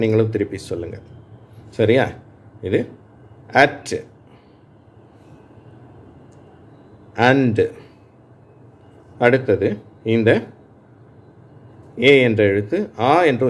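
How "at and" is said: at and and said one by one, pausing for students to echo; slow word-by-word reading for students to repeat; model words to repeat. Shown as a demonstration. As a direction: read each word and wait. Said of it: "நான் ஒரு ஒரு வார்த்தையா வாசிக்கிறேன்".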